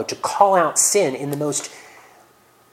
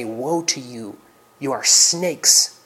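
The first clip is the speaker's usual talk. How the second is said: loving grief; much slower than usual. Acted. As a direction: say it with love, not fury. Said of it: "with perfect love in his heart".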